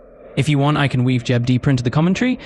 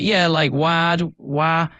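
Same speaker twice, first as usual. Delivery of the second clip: demonstrating the wail; 4 semitones higher, much slower than usual. Retold or imitated. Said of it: "trying to demonstrate".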